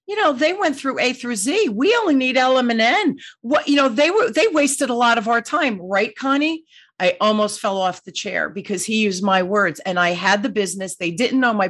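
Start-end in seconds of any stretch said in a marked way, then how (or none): 0.1-6.6 retelling the CEO a bit higher and livelier; lightly voiced CEO who is pleased with the meeting. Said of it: "he said".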